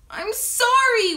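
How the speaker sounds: high, loud, drawn-out apology; wailing. A narrator's reading. Henry apologising to Angelina, acted wail. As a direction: wail it out like an upset child. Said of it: "wailed Henry".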